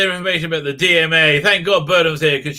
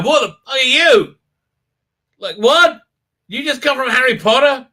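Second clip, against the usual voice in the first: high-pitched, baffled challenge; mock incredulity; 9 semitones higher, 3 dB louder than usual. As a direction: demand an explanation in hammed-up disbelief. Acted disbelief at the alien.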